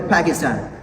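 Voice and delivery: "Pakistan" with a puff of air on the P; aspirated P. Shown as a demonstration. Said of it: "so it should be aspirated".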